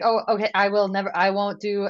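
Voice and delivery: hammed-up flustered promise; startled. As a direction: imitate a boyfriend jumpily backing off. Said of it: "like, so startled".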